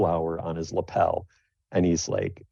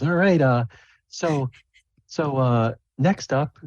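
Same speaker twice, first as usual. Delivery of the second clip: announcer voice; 7 semitones higher, slower than usual. Acted. DM voices Lyrian announcing act.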